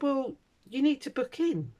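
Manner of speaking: high, prim receptionist voice; mimicking snooty receptionist. Patient imitating the officious receptionist, high and prim. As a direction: play her prim and officious.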